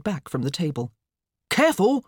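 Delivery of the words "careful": high, loud warning; alarmed. A narrator's reading. Father warning his daughter, alarmed. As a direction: call out in alarm. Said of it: "looked up from the waffle griddle in alarm".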